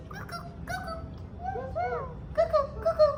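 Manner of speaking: very high, small animal call; guinea pig squeal. Shown as a demonstration. Teacher showing what guinea pig says, high-pitched squeaking.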